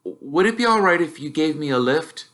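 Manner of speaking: put-on nervous boy asking his uncle; young Harry, unsure and polite; timid boy. Harry asks for a lift.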